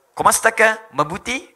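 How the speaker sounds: loud put-on Filipino accent; playful mimicked Filipino greeting. Shown as a demonstration. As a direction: greet someone like a Tagalog speaker. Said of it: "kayak orang Filipin".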